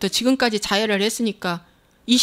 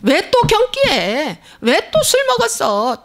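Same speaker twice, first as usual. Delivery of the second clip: shrill nagging; 6 semitones higher, slower than usual. Retold or imitated. Wife nagging drunk husband.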